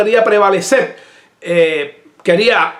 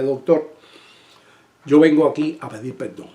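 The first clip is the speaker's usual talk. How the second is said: softer and lower, humble and sincere; humble apology; 4 semitones lower, 4 dB quieter than usual. Retold or imitated. Pastor apologizing to the doctor he fought with, soft and humble. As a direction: ask forgiveness gently, head bowed in voice. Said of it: "Así, así le dije".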